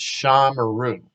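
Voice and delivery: "shamaru" with a held first syllable before "maru"; metag on SHA. Shown as a demonstration. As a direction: say "shamaru" as SHAA, mah-ROO. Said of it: "has that little metag there".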